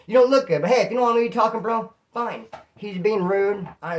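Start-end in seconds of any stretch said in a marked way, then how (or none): 0.1-2.5 higher, louder, and faster at the end; fed up, brushing him off; exasperated retort. Retold or imitated. To the overdosing cellmate, exasperated loud retort.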